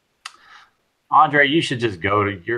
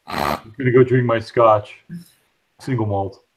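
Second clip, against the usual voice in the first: snooty scotch drinker; slower than usual. Retold or imitated. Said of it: "Ben's acting like".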